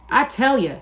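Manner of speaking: high, loud outburst; pouring out his loneliness; cried out. A narrator's reading. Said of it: "he cried".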